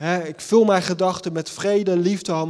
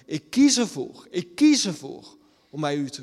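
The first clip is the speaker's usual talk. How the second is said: resolute prayer. Acted. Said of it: "een keuze maken en te zeggen".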